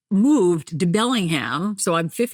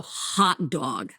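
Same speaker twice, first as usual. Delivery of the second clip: Jersey "hot dog" with aw in dog; old New Jersey accent; 3 semitones lower, 4 dB quieter than usual. Shown as a demonstration. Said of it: "I used to say hot dog".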